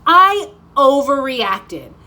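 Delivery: a hint of a relieved little girl; little girl's relief. Girl after ear piercing, slow relieved realization. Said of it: "and she's like".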